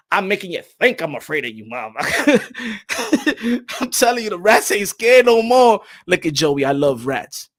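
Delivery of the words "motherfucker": slow, stretched-out rat drawl; menacing rat. Retold or imitated. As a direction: drag it out like a smug rat. Rat voice drawn out.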